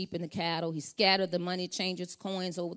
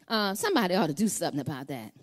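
mock grumble that gets louder and higher; complaining bystander; 6 semitones higher, 8 dB louder than usual. Preacher imitating a churchgoer who just complains, mock grumbling. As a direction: play the onlooker who only complains. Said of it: "This is how it sounds".

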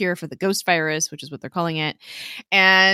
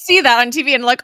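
normal talking voice

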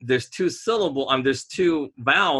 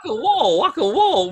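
high-pitched mock Asian accent, W for R and L; 9 semitones higher, 4 dB louder than usual. Teasing co-host about R's and L's, mock Asian accent. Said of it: "they can't say R's, they can't say L's".

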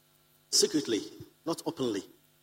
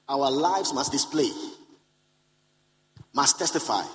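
preaching emphasis; 4 dB louder than usual. Acted. Preacher driving home point.

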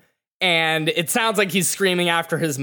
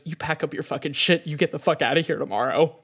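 fast, softer, clipped-off cold anger; cold fury; 3 dB quieter, much faster than usual. Acted. Mother throwing her husband out of the house, coldly furious. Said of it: "and she goes".

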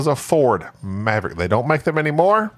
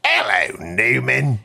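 put-on British accent; 3 semitones lower, slower than usual. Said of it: "it's a British show".

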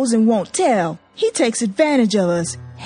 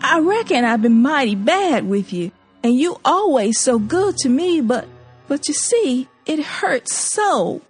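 plaintive hurt; 6 semitones higher than usual. A narrator's reading. Zora pleading, hurt.

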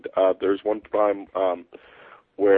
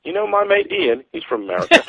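lightly imitated British commuter, starting high; imitated British stranger; 11 semitones higher than usual. Tube stranger asks about his mate, imitated British accent. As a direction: mimic a chatty Londoner with British vowels. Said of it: "someone on the, on the tube next to me said".

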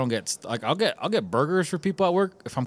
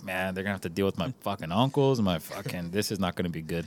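sympathetic dread; 6 semitones lower, 6 dB quieter than usual. Retold or imitated. Dreading family ordering, voiced sympathy.

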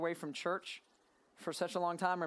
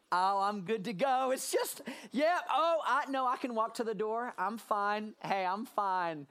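mock patient pretending. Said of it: "walks into the hospital and goes".

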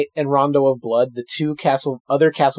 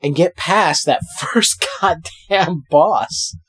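slow, deliberate resolve; slow determined; 5 dB louder, much slower than usual. Real, not acted. S0 vowing to beat the boss, slow and deliberate. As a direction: spell out each step slowly. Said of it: "slow determined delivery".

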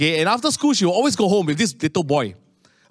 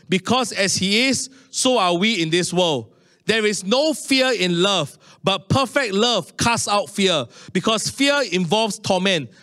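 slow, measured Bible reading; scripture reading; 4 semitones higher than usual. Acted. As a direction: read the verse slowly and solemnly. Reads scripture aloud.

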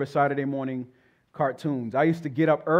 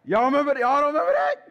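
excited; 10 semitones higher, 5 dB louder, faster than usual. Real, not acted. Teasing crowd about old cartoons.

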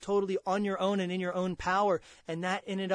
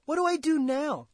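loud, higher pleading question in a churchgoer's voice; imagined churchgoer asking; 6 semitones higher, 5 dB louder than usual. Pretend. Preacher voicing a congregant asking what to do now, loud and higher. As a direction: voice the listener who wants to know what to do. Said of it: "You say".

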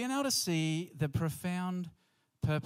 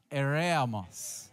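EREMOS drawn out slowly, a little louder; a bit louder; much slower than usual. Shown as a demonstration. Preacher leading the congregation's Greek lesson, a bit louder. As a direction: say Eremos slowly, projecting it a touch more. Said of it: "Say it a little bit louder".

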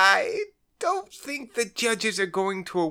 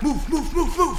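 urgent shout; 9 semitones higher than usual. Acted. Urging the team on mid-chase.

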